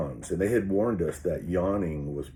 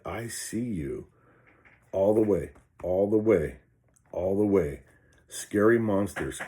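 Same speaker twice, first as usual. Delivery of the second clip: louder, firm and challenging; defiant call; 2 semitones higher, 4 dB louder than usual. Retold or imitated. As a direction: stare the monsters down. Taunting the monsters he sees.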